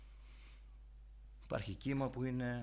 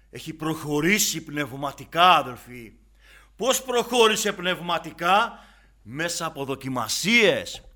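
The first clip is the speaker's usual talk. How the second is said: high, loud preacher's cry; impassioned sermon climax; fiery preaching; 4 semitones higher, 15 dB louder than usual. Acted. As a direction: preach it out with fire, slowing at the end. Preaching at full force.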